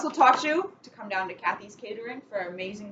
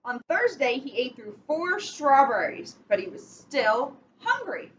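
slow storybook reading with steady rhythm; picture-book read-aloud, measured and clear; reading to children; slower than usual. Acted. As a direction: read it like bedtime story time for kids. Reads picture book to kids.

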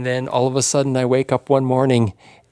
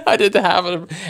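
laughing; 5 semitones higher than usual. Real, not acted. Laughing about the blister.

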